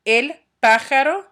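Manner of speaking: el pájaro, punching the opening A of pájaro; stress on first syllable. Shown as a demonstration. Teacher giving the answer for bird, pájaro stressed on first A. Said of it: "pájaro has an accent over the first A".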